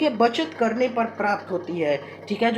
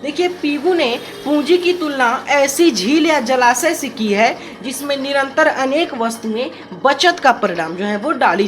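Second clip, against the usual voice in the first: raised teaching voice; slightly louder; 4 dB louder than usual. Real, not acted. Teacher talking over a running fan, slightly louder. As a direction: lift the volume a little to carry. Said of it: "इस कारण मैं थोड़ा सा तेज अब बोलूँगा".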